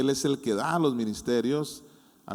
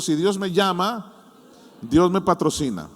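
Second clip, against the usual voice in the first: raised, slowed declaration for others to echo; leading a repeat-after-me; 4 semitones higher, 5 dB louder than usual. Real, not acted. Preacher has congregation repeat after him, emphatic declaration. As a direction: proclaim it so the room can repeat it. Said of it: "Diga conmigo".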